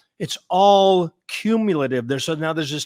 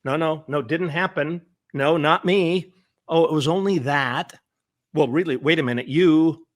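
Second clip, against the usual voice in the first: mock defensive.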